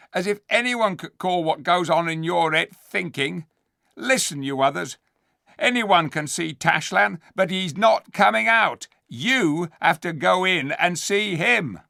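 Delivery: high, loud scheming ape voice; sly ape. Acted. The ape answering the dwarfs, sly and loud. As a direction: slick and sneering.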